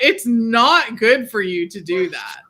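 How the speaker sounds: lightly voiced nagging parent; mom voice. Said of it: "in my best mom voice".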